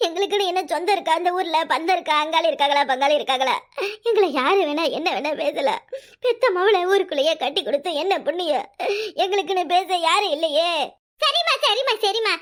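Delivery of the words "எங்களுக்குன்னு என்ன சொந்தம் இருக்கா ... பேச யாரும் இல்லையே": low, tearful wail of a wronged mother; tearful lament. Acted. Mother weeping to her son over the insult, tearful lament. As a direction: pour out the grief, voice sinking lower. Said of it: "அழாத, நிப்பாட்டு".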